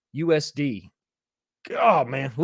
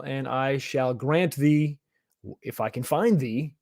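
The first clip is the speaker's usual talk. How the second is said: put-on slow, solemn old-English decree; mock Bible speak; 4 dB quieter, slower than usual. Streamer knights a viewer in mock Bible speak. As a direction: grant the honour like a king in scripture. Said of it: "I'm using Bible speak".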